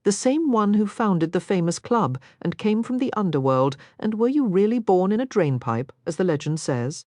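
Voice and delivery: put-on breathless, eager young miss; eager young lady. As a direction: gush with curiosity, lightly voiced. Narrator voices Sarah.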